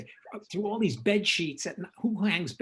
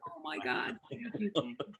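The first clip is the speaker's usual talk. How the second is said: much higher, softer, gushing thanks; flustered thanks; 3 semitones higher, 5 dB quieter than usual. Retold or imitated. Director flustered by Friedkin's praise, gushing high. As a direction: gush with flustered gratitude.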